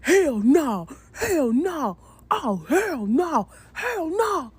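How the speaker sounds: mimicking the date's shocked, slow "hell no", voice wavering; a date backing away in disbelief, drawn out; stunned repeated refusal. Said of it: "He just went".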